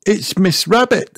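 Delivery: high character voice; Miss Rabbit's voice. A narrator's reading. Miss Rabbit answers the voice at the gate, high-voiced. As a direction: announce yourself in a high voice.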